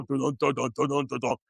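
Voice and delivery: imitated waddling thuds. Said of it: "they have to go".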